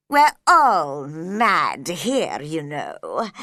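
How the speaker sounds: slow loud sly cat telling secrets; Cheshire Cat voice. A narrator's reading. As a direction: stretch it out like a mischievous cat.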